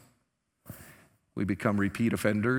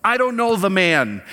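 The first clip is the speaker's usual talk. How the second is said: loud, distant and cold, disowning him; cold impersonal denial; 6 semitones higher, 7 dB louder than usual. Retold or imitated. Preacher voicing Peter's cold denial of Jesus. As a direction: push him away with the words. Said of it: "It's impersonal".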